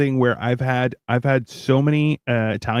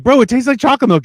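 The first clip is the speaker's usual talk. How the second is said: retold protest; 10 semitones higher, 4 dB louder, faster than usual. Retells arguing over the drink.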